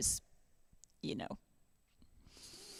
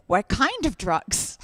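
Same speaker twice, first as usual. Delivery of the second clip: 1 mock serious; 4 dB louder, much slower than usual. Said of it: "I was very serious".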